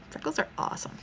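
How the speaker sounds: soft, breathy whisper; whispered reply. Retold or imitated. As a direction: whisper it like a secret. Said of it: "I'm like".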